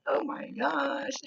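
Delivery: put-on high, slow drawn-out valley girl gush. Medium showing the client a valley girl voice. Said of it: "what the valley girls are like".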